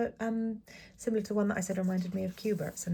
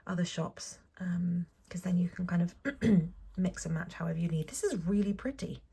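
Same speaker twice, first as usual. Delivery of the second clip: ASMR whisper. Acted. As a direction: whisper it like an unboxing ASMR video.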